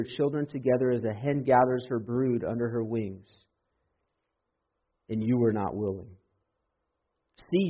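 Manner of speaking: solemn reading of the passage; measured scripture recitation. Acted. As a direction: read the verses with weight.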